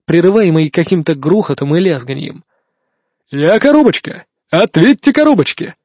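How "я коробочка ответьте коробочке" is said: over walkie talkie. Acted. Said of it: "бодрый, почти дикторский голос".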